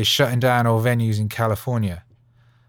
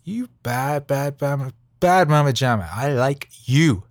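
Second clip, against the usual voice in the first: hyped-up pep talk. Pretend. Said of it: "and just be like".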